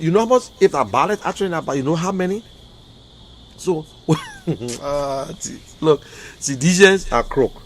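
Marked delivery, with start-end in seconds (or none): 4.1-4.8 wry laugh. Real, not acted. Dry laugh before calling them crooks.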